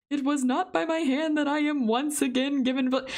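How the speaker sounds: lightly voiced British villain; a half-hearted British accent; attempted British accent. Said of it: "I can't do accents".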